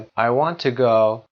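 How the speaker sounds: "to" as a short schwa, tuh; unstressed "to". Shown as a demonstration. Teacher giving an example of schwa, weak "to". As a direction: pass quickly over "to" into "go". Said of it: "وقتی که استرس نداشته باشه صدای شوها رو".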